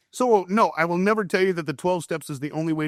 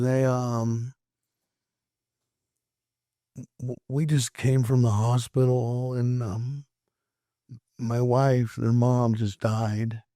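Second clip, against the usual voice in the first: grieving, halting; 2 semitones lower, slower than usual. Retold or imitated. Voices bereaved father breaking news.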